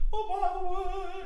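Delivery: high yelled demo, not sung; yelled line. Shown as a demonstration. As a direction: yell it, don't sing. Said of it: "it's not really singing".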